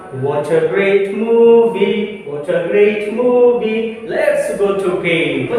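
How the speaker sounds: put-on slow, sing-song rhyme for children; poetry recitation. Shown as a demonstration. Teacher reciting a poem to children, slow sing-song. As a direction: recite it like a nursery poem, slowly. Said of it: "एक एग्जाम्पलीफाई करता हूँ / बच्चों को जैसे मैं poetry पढ़ा रहा हूँ".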